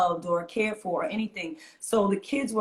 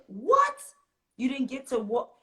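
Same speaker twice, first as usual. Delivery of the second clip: mock disbelief; 4 semitones higher than usual. Mock disbelief at missed graduation.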